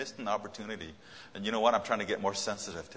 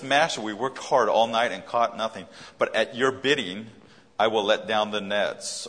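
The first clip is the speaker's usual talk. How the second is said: booming, declaring the verse to the room; loud scripture quote; 9 dB louder than usual. Acted. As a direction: proclaim it at full voice, louder. Reading Peter's answer with force.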